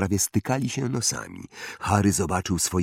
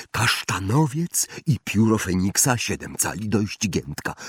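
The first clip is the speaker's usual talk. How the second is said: put-on eccentric old wandmaker, musing; 4 semitones higher than usual. (ekscentryczny wytwórca różdżek, powolna zaduma)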